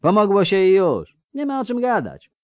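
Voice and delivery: breezy, high-pitched dismissal; smiling reassurance. A narrator's reading. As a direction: brush off the thanks with a smile. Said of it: "rzekł z uśmiechem Landsknecht". (z uśmiechem, lekko, wyższym głosem)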